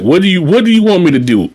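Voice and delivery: exasperated plea. Retold or imitated. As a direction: throw up your hands at the resident. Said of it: "And you just sitting there like".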